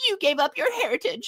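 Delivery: very high-pitched cartoon voice. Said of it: "a Tails voice".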